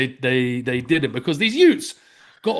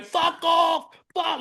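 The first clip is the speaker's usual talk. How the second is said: retold yell; 9 semitones higher, slower than usual. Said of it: "mad guy with, like, wobbly man tits going".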